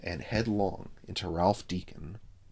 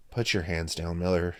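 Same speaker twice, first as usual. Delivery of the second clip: disgusted; 4 dB louder than usual. Acted. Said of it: "said Frank in disgust".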